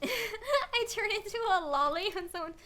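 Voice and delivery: high, loud, thrilled squealing over the raid; excited squeal. Real, not acted. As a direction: shriek with joy as the raid lands.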